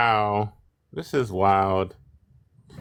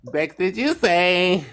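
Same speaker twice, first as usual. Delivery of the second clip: mock shocked; 8 semitones higher, slower than usual.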